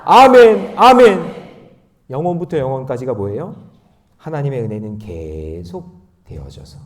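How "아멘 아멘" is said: loud, high call of affirmation; ringing preacher's amen; shouted amen. Real, not acted. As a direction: proclaim it at full voice. Calls out amens after verse.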